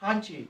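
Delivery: কান্ট্রি with the k breathed like a light খ; aspirated k. Shown as a demonstration. Teacher demonstrates the c sound to students, light খ. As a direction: say কান্ট্রি as খান্ট্রি. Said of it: "সির উচ্চারণটা হালকা খর মতন হবে".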